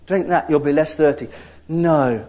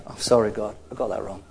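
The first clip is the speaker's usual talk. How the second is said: quiet; 7 semitones lower, 6 dB quieter, faster than usual. Pretend. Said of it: "was say".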